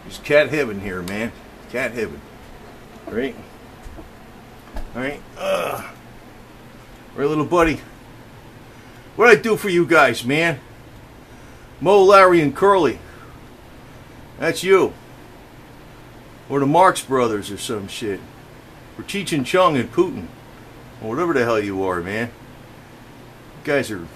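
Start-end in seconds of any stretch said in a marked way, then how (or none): 3.1-17.5 excited pet talk. Real, not acted. Cooing to cats, naming them. 22.3-24.1 slow, hushed whisper to the cats. Real, not acted. Man whispers fondly to his three cats.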